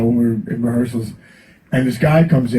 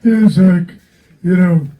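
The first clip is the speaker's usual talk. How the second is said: higher, louder mock rock-singer voice; a hint of a rock singer, higher and louder; imitating a singer; 4 semitones higher, 4 dB louder, slower than usual. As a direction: do a light impression of a rock singer confessing. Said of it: "he goes".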